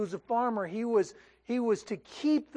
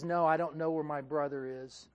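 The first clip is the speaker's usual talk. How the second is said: contemptuous; 6 semitones lower, 3 dB quieter than usual. Retold or imitated. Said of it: "in contempt and even sarcasm".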